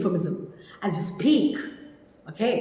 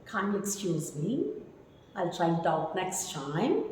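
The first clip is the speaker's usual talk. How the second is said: soft, low, polite refusal; hushed courteous apology; utmost courtesy; 4 semitones lower, 11 dB quieter than usual. Shown as a demonstration. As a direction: decline gently, with quiet deference. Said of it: "you need utmost courtesy".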